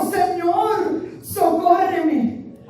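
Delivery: high plea, drawn out on the last word; súplica postrada. Acted. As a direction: beg the Lord for help, slowly. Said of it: "se postró ante él diciendo". (clamando socorro, agudo y alargado)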